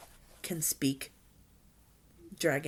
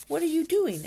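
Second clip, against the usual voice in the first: high, loud curious question; acted burst of curiosity; 11 semitones higher, 7 dB louder than usual. A narrator's reading. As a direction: pipe up, puzzled by what you see. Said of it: "asked Fishlegs curiously".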